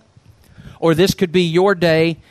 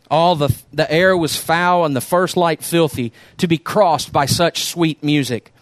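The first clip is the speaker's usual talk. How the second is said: the Rag Man read aloud to the congregation; unhurried storyteller's voice; story reading. Acted. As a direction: tell it like a parable from the pulpit. Preacher reads story aloud.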